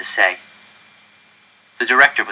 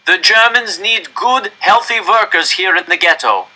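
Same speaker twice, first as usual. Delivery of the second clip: director's raised, higher public address; stern official; 10 semitones higher, 5 dB louder than usual. Acted. Director warning the crowd into the microphone, raised and stern. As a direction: command the whole square from the microphone.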